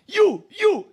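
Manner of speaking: high, loud calling out; sharp call-out. Retold or imitated. Pastor calling out to the returning woman, loud. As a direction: shout at her to stop her.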